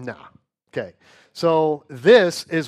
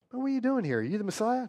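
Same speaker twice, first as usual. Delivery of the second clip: questioning Jews; 8 semitones higher, 6 dB quieter, faster than usual. Acted. Jews questioning John voiced.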